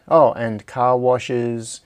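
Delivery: loud, slow exclamation of recall; sudden remembering. Real, not acted. Streamer suddenly recalls the car washes, loud and drawn out. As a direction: blurt it out as it comes back to you.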